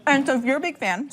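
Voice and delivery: talking through a mouthful of bagel; mouth full. Real, not acted. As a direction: chew and talk at once. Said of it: "sorry, I'm talking with my mouth full".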